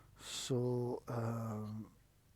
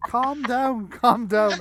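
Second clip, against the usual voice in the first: loud, higher mock yell of calm down; calm down shout; 8 semitones higher, 10 dB louder, much slower than usual. GM mocking the character yelling at angry drivers, loud mock shout. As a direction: bark it like a useless peacemaker. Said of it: "classic mistake of going".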